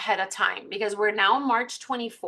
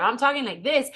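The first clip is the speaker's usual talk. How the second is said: bright, upbeat and smiling; cheerful smiling demo; 3 semitones higher than usual. Shown as a demonstration. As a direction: say "But if I'm talking like this" with a big smile. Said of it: "I'm just gonna be a little bit more excited 'cause I'm smiling".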